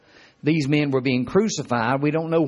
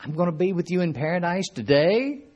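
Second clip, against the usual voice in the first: high-pitched disbelieving "What", then a rising question; surprised; 4 semitones higher than usual. Acted. Preacher voicing the thief hearing of paradise, surprised. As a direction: act astonished at unexpected good news. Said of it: "surprised to hear that?".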